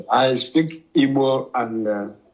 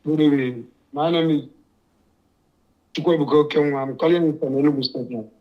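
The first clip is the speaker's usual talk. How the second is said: muffled voice over the phone; faster than usual. Real, not acted. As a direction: talk as if through a hand over the mouth. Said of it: "your line is a little bit muffled".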